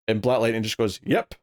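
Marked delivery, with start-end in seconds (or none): 1.0-1.3 mock-smug, higher-pitched one-word reply. Black Lightning answers Metamorpho, retold as mildly smug. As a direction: toss it off high, imitating smug self-satisfaction. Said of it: "Kinda smug".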